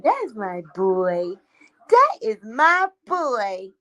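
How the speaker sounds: slow, doting cooing. Real, not acted. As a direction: coo at the pet tenderly. Slow doting baby talk.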